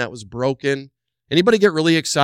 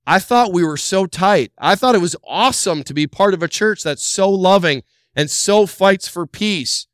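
mock hurt believer; 5 semitones higher, 4 dB louder than usual.

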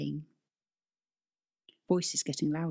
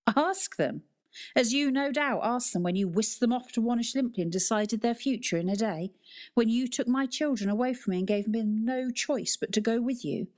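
bitter angry mother; 6 semitones higher than usual. Acted. Mother angrily mocks father.

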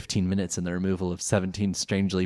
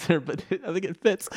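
Pegasus voice; 11 semitones higher than usual. Retold or imitated. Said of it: "I went into, like, a Pegasus voice".

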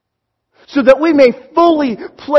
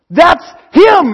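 higher and louder, bursting with it; excited recognition; 5 semitones higher, 6 dB louder than usual. Acted. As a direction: point him out with rising joy. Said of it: "John goes".

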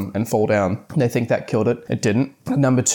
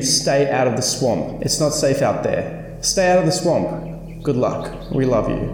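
higher, ominous warning note read aloud; 3 semitones higher than usual. Acted. Reading the grandparents' warning note to viewers, ominous. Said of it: "it ends with a very, very sort of ominous cliffhanger".

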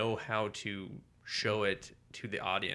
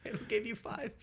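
much higher, slow, put-on game voice; mock game item voice; 6 dB quieter, slower than usual. Joking to his co-host that the milk is a potion, high and slow. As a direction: read it like a video game item.

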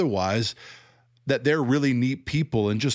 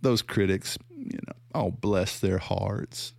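slow, pitying "bless their hearts"; mock Bill Johnson; slower than usual. Critic mimics Bill Johnson pitying critics, slow and syrupy. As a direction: patronise the critics sweetly. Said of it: "Bill Johnson basically says".

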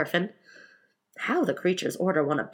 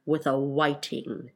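slow, slightly lowered pronouncement; deep voice; 3 semitones lower, slower than usual. A narrator's reading. Griffin solves it for Alice, mildly deep voice. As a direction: settle a little deeper, unhurried. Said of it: "in a deep voice".

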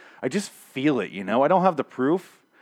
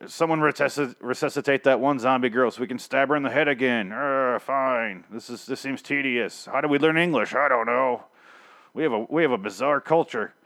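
dopey zombie voice; 2 semitones higher than usual. Retold or imitated. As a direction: play the zombies as polite dimwits. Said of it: "Just like".

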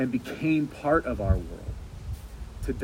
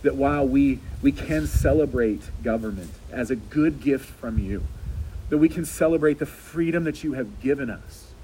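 earnest prayer. Acted. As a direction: lead the church in earnest prayer. Leads a closing prayer.

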